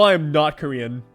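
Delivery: usual speaking voice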